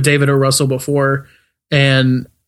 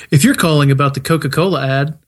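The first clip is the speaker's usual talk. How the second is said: phone menu voice. Pretend. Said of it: "we need hold music".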